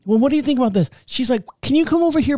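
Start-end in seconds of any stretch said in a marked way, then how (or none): 0.0-0.9 imitated patient wife, higher pitched; nicely coaxing, lightly put on; polite, nice wife. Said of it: "being as polite and nice as possible". 1.6-2.4 high, sweet imitation of a wife; polite pleading, pitched well up; polite, nice wife. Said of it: "being as polite and nice as possible".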